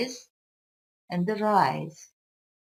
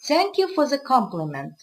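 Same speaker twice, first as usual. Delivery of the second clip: higher-pitched exclamation on "Thank you for the compliment"; exclamatory sentence; 4 semitones higher than usual. Shown as a demonstration. Teacher demonstrating an exclamatory sentence to learners, exclamatory tune. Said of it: "exclamatory sentence".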